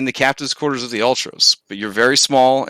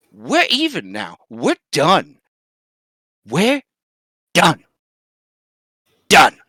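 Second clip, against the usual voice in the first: final word; 2 semitones higher, slower than usual. Acted. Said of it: "And I said".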